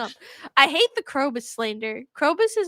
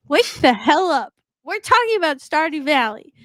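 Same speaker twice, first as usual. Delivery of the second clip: scolding; 6 dB louder than usual. Real, not acted. Scolding yawning co-host.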